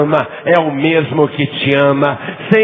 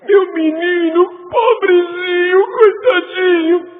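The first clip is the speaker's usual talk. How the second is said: high, crying mother's lament, stretched out; mother weeping for her son; 4 dB louder than usual. Retold or imitated. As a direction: wail it like a grieving mother pleading for her boy. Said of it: "Mas para aquela mãe".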